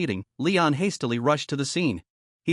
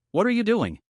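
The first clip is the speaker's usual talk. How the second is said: higher, sharp startled cry; startled exclamation; 6 semitones higher than usual. A narrator's reading. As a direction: blurt it out, caught off guard.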